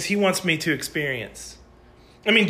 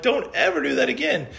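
angry coach warning; 8 semitones higher than usual. Retold or imitated. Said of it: "He was so angry".

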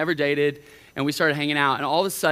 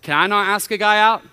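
louder, protesting; indignant girl; 3 semitones higher, 7 dB louder than usual. Retold or imitated. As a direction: push back, a bit indignant. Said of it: "Some of you are asking that".

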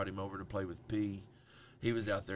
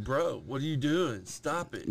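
mock toddler protest; 5 semitones higher, 6 dB louder, slower than usual. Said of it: "He's like".

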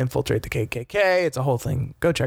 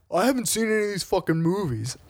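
annoyed moviegoer; 5 semitones higher than usual. Retold or imitated. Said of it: "everybody's like".

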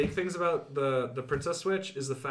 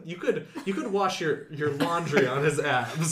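laughing; 3 dB louder than usual. Real, not acted. Laughing to friends about the hunky baker, giggling. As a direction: giggle while describing him.

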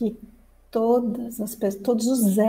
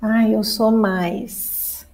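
smug ego; 3 semitones lower, much slower than usual. Pretend. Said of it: "O ego adora falar que é diferente".

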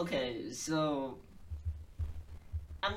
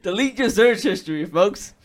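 mock dramatic warning; 2 semitones higher, 14 dB louder than usual. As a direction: warn them like a conspiracy PSA.

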